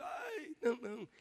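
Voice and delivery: high, mock-tearful wail; mock crying mother. Imagined mother bringing her crying baby, mock wail.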